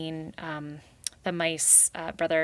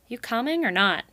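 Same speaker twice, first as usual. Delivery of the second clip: called back; 5 semitones higher, 4 dB louder than usual. Acted. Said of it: "he called back, hoping to sound confident".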